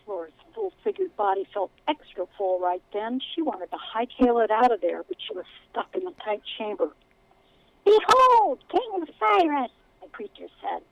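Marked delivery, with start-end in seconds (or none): 0.0-6.9 steady storytelling read; story narration. A narrator's reading. Author reads her book aloud. 7.8-9.7 much higher, slow whiny rat king; pompous whine, each word careful. Acted. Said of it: "the whiny voice continued, speaking each word carefully".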